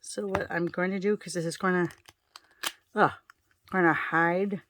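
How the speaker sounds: talking with a lid between the lips; mouth full. Real, not acted. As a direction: speak around something held in the mouth. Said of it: "Sorry, I have lid in my mouth".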